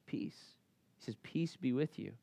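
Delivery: hushed, softly spoken greeting of peace; gentle blessing. Retold or imitated. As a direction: offer peace quietly and calmly. Jesus greeting disciples gently.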